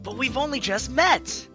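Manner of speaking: high, loud burst peaking on MET; mock scandalized protest. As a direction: protest as if shocked, hammed up. Acting out a dialogue option.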